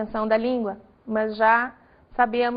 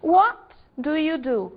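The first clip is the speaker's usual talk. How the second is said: slow example; 3 semitones higher than usual. Shown as a demonstration.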